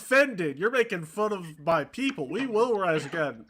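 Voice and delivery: mock southern rallying cry; mock-offended southerner. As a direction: play an outraged southerner.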